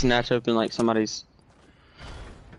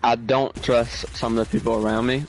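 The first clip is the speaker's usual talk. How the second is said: talking while chewing candy; words round a mouthful; chewing noisily. Real, not acted. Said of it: "Sorry, I'm eating something, so it sounds weird".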